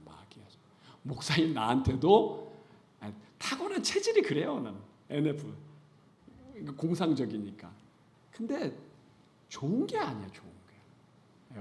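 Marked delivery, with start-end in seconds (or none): 0.1-0.6 whispered aside. Real, not acted. Repeated aside after a point. 10.3-11.6 whispered aside. Real, not acted. Repeated aside.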